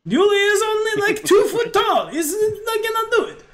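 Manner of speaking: high, jokey innkeeper in broken English; excitable little foreign character; comic innkeeper. Acted.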